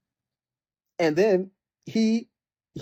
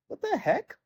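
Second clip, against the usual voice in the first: baffled outburst; 14 semitones higher than usual. Retold or imitated. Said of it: "Where you're like".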